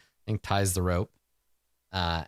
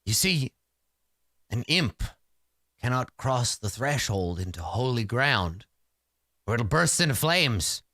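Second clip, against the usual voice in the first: sorcerer explaining. Acted. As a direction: lecture haltingly, then grow more animated. Sorcerer explains about imps.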